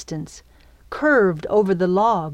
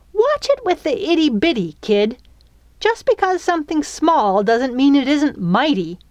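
high-pitched sharp scolding; 8 semitones higher, 4 dB louder than usual. A narrator's reading. Fairy correcting the girl about small things, sharp. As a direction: tell her off sharply, taking mild offense. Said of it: "her sharp tone".

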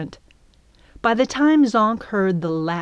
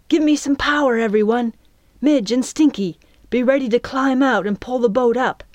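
higher and louder, urging the rowers on; voice raised a tad; 6 semitones higher, 4 dB louder than usual. Acted. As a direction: call the crew to pull hard. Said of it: "Raising her voice just a tad".

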